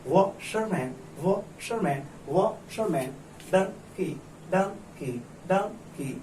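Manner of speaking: washerman and donkey broken into separate beats; syllable-wise reading. Shown as a demonstration. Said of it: "तो पढ़ेंगे". (washerman और donkey को टुकड़ों में तोड़कर)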